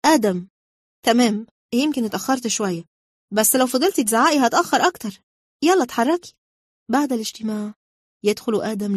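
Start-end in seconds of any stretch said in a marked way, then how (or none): 0.0-0.5 name called out loud in anger; acted exasperated shout; angry yell. A narrator's reading. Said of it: "تصرخ لداخلها بغضب". 1.0-6.3 louder, higher-pitched irritated retort; exasperated comeback, rising in pitch; acted quarrel. Acted quarrel over being late.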